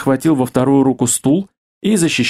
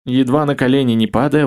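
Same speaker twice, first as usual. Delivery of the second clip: plain reading voice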